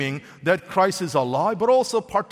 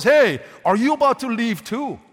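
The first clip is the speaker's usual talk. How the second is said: louder, pleading question to the departing twelve; desperate plea; 3 semitones higher, 5 dB louder than usual. Shown as a demonstration. Preacher voicing Jesus as desperate, pleading loudly. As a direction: call out after them as if desperate. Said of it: "We read it as if he's desperate".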